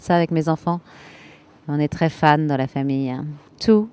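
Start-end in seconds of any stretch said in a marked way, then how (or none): 3.6-3.9 slow, emphatic enthusiastic listing; excited. Real, not acted. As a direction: savour each item with delight. Fan listing everything she loves.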